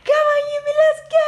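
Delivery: very high, loud squealed call; shrieky, eager pet-owner cheer; excited rallying. Real, not acted. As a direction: whip the dog into a frenzy. Rousing the dog to go.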